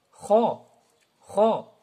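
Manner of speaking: "Kha" said thick and rounded, like "kho"; emphatic kha. Shown as a demonstration. Teacher shows emphatic letter, heavy "Kha". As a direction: give "kha" a full, heavy vowel.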